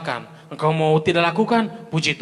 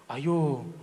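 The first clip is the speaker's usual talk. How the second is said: tempting devil; 5 semitones lower, much slower than usual. Acted. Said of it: "dusu-dusu kita".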